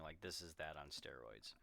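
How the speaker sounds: hushed aside; whisper. Real, not acted. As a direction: drop to a whisper. Aside about binge eating scene.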